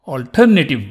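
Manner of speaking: alternative, strong TER, ending squeezed short; last E almost dropped. Shown as a demonstration. Teacher explaining the dropped E, alternative with its last E reduced. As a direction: let the last E of alternative nearly vanish. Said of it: "The last E is sort of almost dropped".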